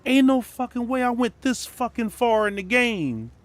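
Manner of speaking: high, loud and drawn-out disbelief; exasperated outburst. Retold or imitated. Streamer refusing the stream cut, loud and high. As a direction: refuse it at the top of your voice. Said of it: "And I'm like".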